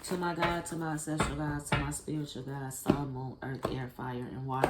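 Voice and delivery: measured, chant-like calling on her gods and the elements; ritual invocation. Acted. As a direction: intone it like an opening prayer. Opening invocation again.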